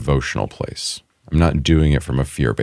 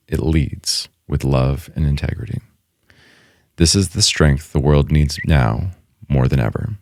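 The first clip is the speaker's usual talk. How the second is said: measured read-out with deliberate pauses between phrases; prepared closing reading. Real, not acted. Co-host reading a closing thought written earlier, measured. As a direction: read it as a considered closing statement, settling at the end.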